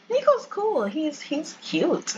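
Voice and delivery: the second line drawn out slowly; gushing mom voice. Acted. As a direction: squeal it out like a mom dreaming of grandkids. Mom voiced in Sims story.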